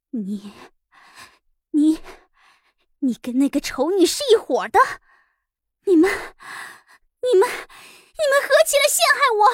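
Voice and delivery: voice shaking, trembling, quavering. A character in a read-aloud novel confronts another, in a trembling voice. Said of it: "声音颤抖".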